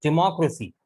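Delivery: डेमोक्रेसी said clearly as di-MAH-kra-si; correct pronunciation. Shown as a demonstration. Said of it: "pronunciation भी सही करें".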